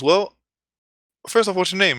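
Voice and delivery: high, loud showman clown voice; circus clown. Retold or imitated. Clown interviewing his young volunteer, showy. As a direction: play a clown quizzing a child. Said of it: "And the clown goes".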